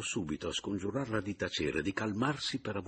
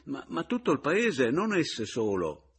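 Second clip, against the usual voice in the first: high, stammered protest; exasperated; 6 semitones higher, 4 dB louder than usual. A narrator's reading. Rival blames the whole town too, exasperated. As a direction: blurt it out, then drag the last words. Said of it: "esclamò Pomino esasperato".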